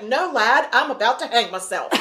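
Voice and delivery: put-on light, comic Irish accent; deadpan reply in a put-on Irish lilt; Southern Ireland accent. Man turning away a kid, mock Southern Irish accent. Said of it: "that's my Southern Ireland accent".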